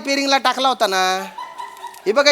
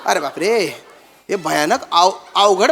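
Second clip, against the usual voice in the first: mock fear; 7 semitones lower, slower than usual. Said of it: "मला भीती वाटते".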